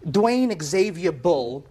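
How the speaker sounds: slow, deliberate reading of the name; measured reading off the licence; reading slowly. Shown as a demonstration. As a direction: spell each part of the name out slowly for the judge. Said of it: "I read his license".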